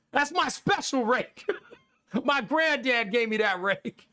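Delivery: mocking impression of the rake-hoarding neighbor. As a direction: sneer it like a childish grown man guarding his toy.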